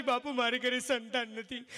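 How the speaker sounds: drawn-out sad repeat. Acted. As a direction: drag it out mournfully. Woman repeats her plea, slower. (ધીમો, રડમસ અવાજ)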